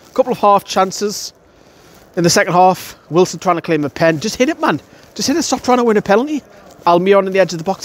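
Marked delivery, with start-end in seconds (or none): 4.2-6.4 high-pitched exasperated cries at the striker; frustrated yelling at players. Retold or imitated. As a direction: plead with him to just shoot.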